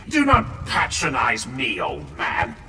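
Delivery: sharp indignant shout; angry retort. Acted. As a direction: bark it back, offended. Young marine bristling at elder.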